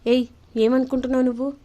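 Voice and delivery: mild mock anger at a vegetarian meal; angry retort. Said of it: "ఇంకా కోపం వస్తుంది సంజయ్కి".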